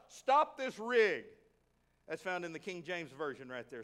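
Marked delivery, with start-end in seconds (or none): 0.1-1.2 loud, slow, drawn-out holler; yelled command. Retold or imitated. Preacher acting out the Ethiopian halting his chariot, yelling. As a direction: call it out loud and higher, each word stretched. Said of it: "He yelled out".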